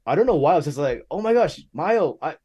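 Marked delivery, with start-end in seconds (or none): 1.1-2.4 high-pitched fan meeting an idol; starstruck gushing. Retold or imitated. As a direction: gush breathlessly at your favourite musician, re-enacted. Re-enacts gushing at admired musician.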